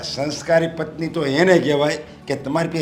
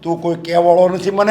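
angry rebuke; 4 semitones higher, 5 dB louder than usual. Acted. Father rebukes son in quarrel.

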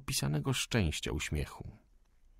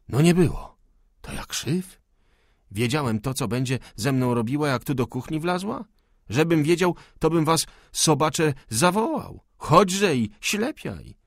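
higher and louder, furious peasant yelling; angry shouting; 6 semitones higher, 6 dB louder than usual. A narrator's reading. Old cook shouting at the fire, furious. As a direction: roar at the imagined accusers. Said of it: "pokrzykiwał".

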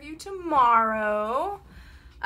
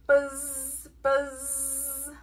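bee buzz. A narrator's reading. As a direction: buzz with a drawn-out zzz. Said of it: "He can sound like a bee".

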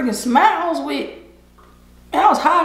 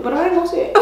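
usual speaking voice

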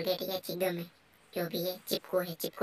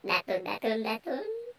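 mock crying; 3 semitones higher than usual. Real, not acted. Mocks the game character's teeth.

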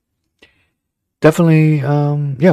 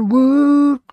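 cheer; 5 dB louder than usual. Real, not acted. Cheering at Teddy Bridgewater on TV.

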